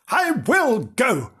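high, drawn-out kitten resolve; eager kitten. Acted. Kitten Bernard deciding to follow the children, eager. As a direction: bold little kitten announcing it, slowly.

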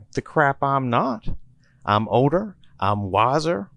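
hammed-up wounded pride; indignant insistence. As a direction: puff up and insist you're in charge. Tallahassee insists he is boss.

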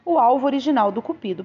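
lively, expressive audiobook reading; story narration. A narrator's reading. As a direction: read the novel aloud with animated phrasing. Reads a novel aloud.

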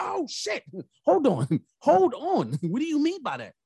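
high startled "oh shit", laughing; shocked laughing. Retold or imitated. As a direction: laugh nervously in disbelief. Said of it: "I said".

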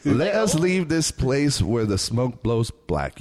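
slow, deliberate recitation; slow poem reading. Acted. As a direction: recite it slowly, word by word. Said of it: "spoken word".

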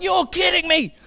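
high-pitched mock outrage; indignant disbelief, re-enacted; incredulous dad. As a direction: act out an exasperated father. Dad reacts indignantly in story.

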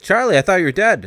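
startled cry of relief at seeing Charlie; shocked. Retold or imitated. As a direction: gasp it out in disbelief. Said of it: "is like".

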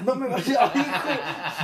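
loud, high mock defiance breaking into laughter; hammed-up yell, cracking up; imitated violent yelling. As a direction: mimic the brawler, slowly and loudly. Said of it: "güey, así decía".

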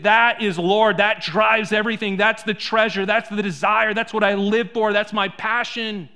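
churchgoer's idol talk. Retold or imitated. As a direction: voice a churchgoer proclaiming money their passion. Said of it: "we would say".

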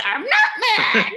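high, loud, strained fake calm; through gritted teeth. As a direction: force the words through clenched teeth. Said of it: "talking through gritted teeth".

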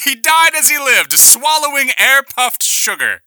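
loud, high laughing words. Acted. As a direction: talk through a big laugh. Laughing at choking friend.

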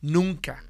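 firm, forceful "Nunca"; emphatic NUNCA. Retold or imitated. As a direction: hit "Nunca" hard, standing alone. Brother's firm admonishment, retold.

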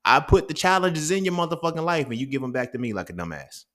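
lightly voiced God telling someone off, building in heat; God scolding. God to people handing challenges back, mock exasperated scolding. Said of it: "God literally tells you".

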